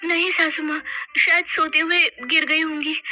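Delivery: sweet obedient daughter-in-law; meek apology. Acted. Mona apologising to her mother-in-law, meek and gentle.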